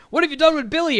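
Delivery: high, loud imitation of a captive's yell; retold yell. Johnny Depp's character yelling when captured, retold yell. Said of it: "and he yells out".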